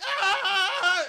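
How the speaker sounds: high, loud scream breaking into laughter; laughing mock scream. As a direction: scream it while cracking up. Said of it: "and she's like".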